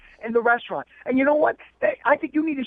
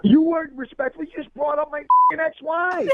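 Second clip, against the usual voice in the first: louder, higher, offended protest; rising indignation, slowing on the last line; indignant outburst; 5 semitones higher, 3 dB louder than usual. Real, not acted. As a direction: push back hard at her. Caller offended by mention of divorces.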